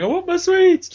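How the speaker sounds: very high, loud mock tantrum squeal; begging child. Dad imitating his daughter demanding her sweets back, squealed tantrum. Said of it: "going mental and begging".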